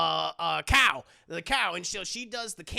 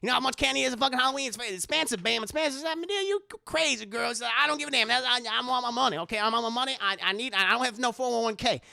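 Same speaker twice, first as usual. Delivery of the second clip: lightly voiced sassy old Madea; a hint of a brassy grandma holding court. Madea bragging to Aunt Bam about her past, lightly voiced. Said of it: "it's the voice".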